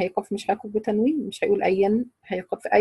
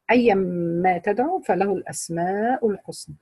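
Quran recitation. Acted. Recites the verse again.

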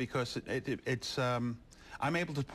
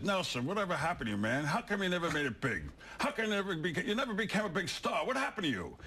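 raised, fast Rodney Dangerfield voice; Rodney Dangerfield impression; 5 semitones higher than usual. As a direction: do Rodney, pushy and quick. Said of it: "He says".

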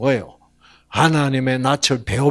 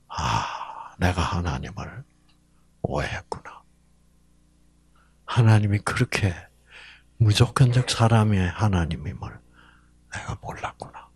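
hushed realization; 7 semitones lower, 5 dB quieter than usual. Acted.

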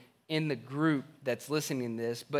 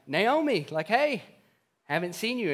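excited greeting; 5 semitones higher than usual. Retold or imitated. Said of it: "people start coming up to her and like".

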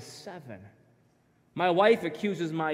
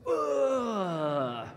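mock groan. Mocking a horrible player.

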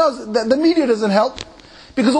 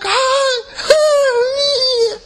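much higher, sing-song mock greeting; celebrity greeting. Imitating a pop singer greeting hijabi fans, high and sing-song. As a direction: coo it like a pop star waving.

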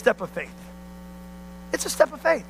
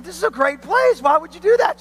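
higher-pitched disbelieving objection; mock dismay, pitch climbing; retold incredulous protest; 4 semitones higher than usual. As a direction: protest as if baffled by the idea. Retold protest to leaving member.

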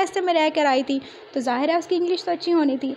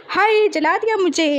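sudden yelp of pain, higher and louder; pained yell; 5 semitones higher, 4 dB louder than usual. Acted. Aaron yelps at Eva after the spill. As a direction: cry out as hot coffee burns him. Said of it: "एरन अब एकदम से चिल्ला रहा था".

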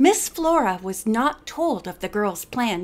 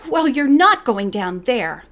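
a firm, louder warning; 5 dB louder than usual. Acted. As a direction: put your foot down, louder. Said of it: "Helen said firmly".

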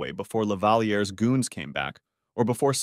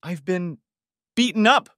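wheezed; 9 semitones higher, 4 dB louder than usual. Acted. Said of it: "I wheezed".

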